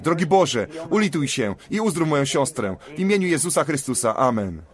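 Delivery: fervent prayer voice, laying on hands; earnest prayer. Real, not acted. Preacher praying for a woman's healing, earnest prayer. Prays for the sister.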